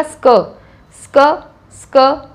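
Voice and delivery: "स्क" said as one sk-uh blend, spaced out; blended S sound. Shown as a demonstration. Teacher showing what S and K make, blended "स्क". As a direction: run s straight into k on each "स्क". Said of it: "क्या बनेगा?".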